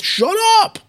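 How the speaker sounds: a mock shout, jumping far up in pitch; squeaky self-scolding. Warning himself mid-argument, squeaky high mock yell. Telling himself to stop talking.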